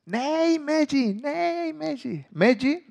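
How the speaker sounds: high shouted protest; kids yelling. Retold or imitated. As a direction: cry out to stop him. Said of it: "Och alla börjar skrika".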